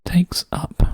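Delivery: quiet voiceless check; whispered musing. Real, not acted. Solver testing the clue phrase under his breath, whispering. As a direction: whisper the words, pitch lifted.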